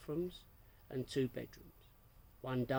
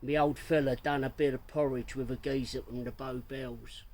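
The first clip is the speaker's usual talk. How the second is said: Cockney slang; 4 dB louder than usual. Acted. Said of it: "in rhyming slang".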